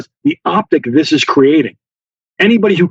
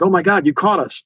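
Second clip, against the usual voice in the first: mock panic, raised pitch without extra volume; acting freaked out; 4 semitones higher than usual. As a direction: put on a fake alarm at being found out. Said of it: "we would act all freaked out".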